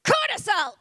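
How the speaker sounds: calling out. Acted. General calling cortisol.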